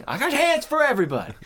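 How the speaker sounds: high, loud, fast mock outburst; mad threat. Cop threatening everyone around him, acted fast angry shout. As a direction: fire it off as an acted enraged yell. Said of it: "You'd get so mad".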